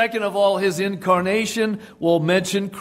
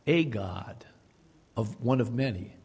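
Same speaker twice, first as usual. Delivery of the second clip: scoffing whisper; 6 semitones lower, 7 dB quieter than usual. Retold or imitated. Mocking the Witnesses' teaching.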